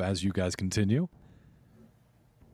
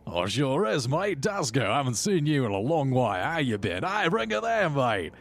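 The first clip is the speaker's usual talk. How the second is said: hearty Aussie gnome, pitch swooping up; Australian accent; 4 semitones higher than usual. Acted. Jim Jar reunites with Dasko, in an Australian accent. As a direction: greet a mate in broad, excited Australian. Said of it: "Do they have Australian accents".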